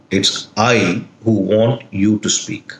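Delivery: "I" set apart from the rest; stress on I. Shown as a demonstration. Teacher explaining who wants it, stress on "I". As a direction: put the weight on "I". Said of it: "The emphasis on I".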